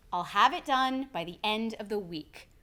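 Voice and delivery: steady statement, WEEK drops to a close; downward inflection. Shown as a demonstration. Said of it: "Try it with me".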